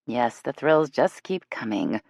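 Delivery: dry deadpan, a little slow; mock-bored sarcasm. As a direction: say it flat-out ironic, unimpressed. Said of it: "Jill deadpanned".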